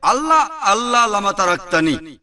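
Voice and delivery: mock anguished call; anguished cry. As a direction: cry out as if forsaken. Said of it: "সেটা হবে".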